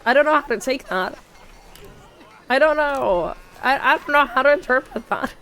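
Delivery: hoarse, bemused sick voice; sick-throated, puzzled musing. Real, not acted. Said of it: "my sick voice".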